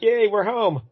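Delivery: high-pitched little hooray; mock cheer. Turtles land on a rooftop, mock cheering. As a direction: lightly act out a relieved homecoming cheer. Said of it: "They're like".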